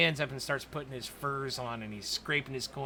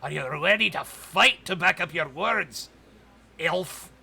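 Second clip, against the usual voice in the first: loud, slow, higher threat; threatening McCready; 5 semitones higher, 8 dB louder than usual. Acted. McCready daring the elf to back up his words, loud and slow. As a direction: challenge the elf to a fight. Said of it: "McCready looks at you and he says".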